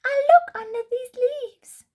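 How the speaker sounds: high, bouncy bunny; boing along like a hopping rabbit; Bunny answers Puppy, high and bouncy. Acted. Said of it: "says Bunny".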